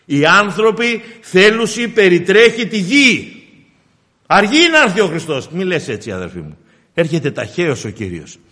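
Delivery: fervent pulpit delivery; impassioned preaching. Acted. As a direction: preach it out, punching phrases and dropping on the address. Preaches on Christ's coming.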